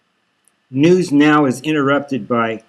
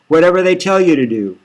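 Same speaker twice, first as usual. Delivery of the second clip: higher, louder and fast through tears; tearful and rushed; 5 semitones higher, 6 dB louder, faster than usual. Acted. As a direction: blurt it out in distress. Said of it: "She's sniffling".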